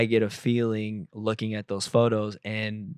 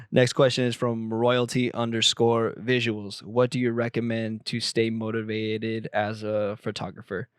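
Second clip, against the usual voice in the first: flat, monotone robot reading. Shown as a demonstration. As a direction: read it like a robot. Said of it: "Why did I just read that like a robot?".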